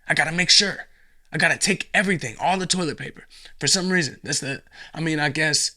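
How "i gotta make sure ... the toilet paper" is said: panicky hoarder. Retold or imitated. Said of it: "everybody's just like".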